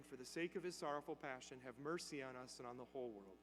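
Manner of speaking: quiet praying. Retold or imitated. Priest prays the rosary beside the dying man, quiet praying. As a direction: recite it quietly, low and soft. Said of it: "he quietly starts praying".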